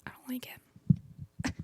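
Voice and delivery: slow whisper through a retainer; wearing a retainer. Real, not acted. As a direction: mumble around a tight retainer. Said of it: "I need to put my retainer in".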